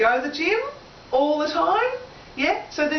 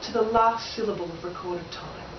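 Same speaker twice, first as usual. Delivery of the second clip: Macbeth reciting; 5 semitones lower, 3 dB quieter than usual. Acted. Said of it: "And he says".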